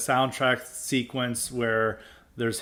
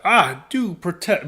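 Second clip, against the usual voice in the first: Foghorn Leghorn drawl; 4 semitones higher, 4 dB louder, slower than usual. Retold or imitated. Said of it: "talking like, um, Foghorn Leghorn".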